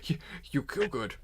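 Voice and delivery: amused, stumbling echo of a brutish line; laughing imitation. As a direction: quote the orc line through giggles. Cracking up, repeating player's orc line.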